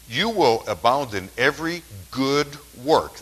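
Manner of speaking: deliberate, emphatic Bible reading; Scripture reading. Acted. Preacher reading Corinthians to the congregation, deliberate and emphatic. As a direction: read the verses out with weighty stresses.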